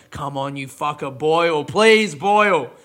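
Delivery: mock pleading. Pleading with the kettle, laughing.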